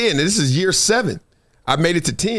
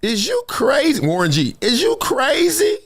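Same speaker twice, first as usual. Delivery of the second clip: high, slow laid-back rapper voice; a rapper's drawl; 7 semitones higher than usual. Retold or imitated. Former teammate telling him to keep playing, rapper-style drawl. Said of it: "he said it like on that rapper's album".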